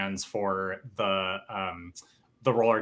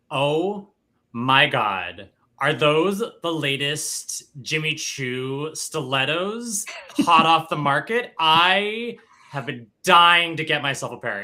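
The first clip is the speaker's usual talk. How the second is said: a touch loud and drawn-out; loud attention-getting gush; 4 semitones higher, 5 dB louder, slower than usual. Acted. Emily angling for the event planner's attention, loud gushing. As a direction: exclaim it to be overheard. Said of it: "just loudly say".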